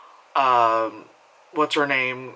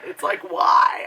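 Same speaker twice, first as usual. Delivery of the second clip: exasperated why; 3 dB louder, slower than usual. Real, not acted. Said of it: "why is that the trend".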